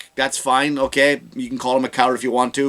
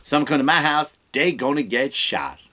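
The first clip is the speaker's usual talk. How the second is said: mock Kamala down south. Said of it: "She'll talk".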